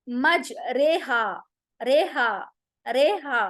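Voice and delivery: मज रेहा drawn out slowly with रे as "re"; correct recitation. Shown as a demonstration. Teacher slowly modelling मज रेहा for students. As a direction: stretch मज रेहा, the रे tilted toward e. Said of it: "इसको हम".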